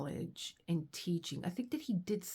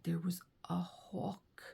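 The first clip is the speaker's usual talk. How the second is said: slow, breathy hushed report; slower than usual. Retold or imitated. Husband telling her about the hawk, hushed and slow. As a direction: hush it so you won't scare the bird off.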